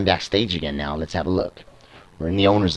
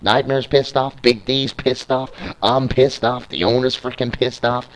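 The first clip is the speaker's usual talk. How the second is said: higher-pitched rhythmic listing; gleeful hype; 5 semitones higher than usual. Acted. Commentator revelling in everyone's anger, excited. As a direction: hammer out each name with mounting relish. Commentator relishing a list of tempers.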